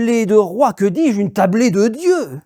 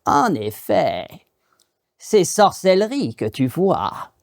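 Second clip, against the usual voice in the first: witch's slow voice; slower than usual. Acted. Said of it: "une voix derrière lui qui lui dit".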